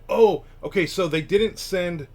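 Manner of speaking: a light imitation of a surprised author; retold surprised reply. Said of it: "And he said".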